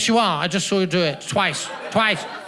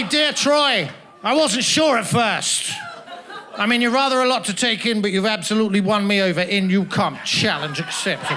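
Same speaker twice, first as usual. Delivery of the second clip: reading the card. Pretend. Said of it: "and it's gonna say".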